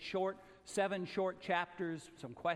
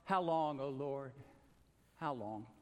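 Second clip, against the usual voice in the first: lament; 4 semitones lower than usual. Retold or imitated. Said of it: "cry out".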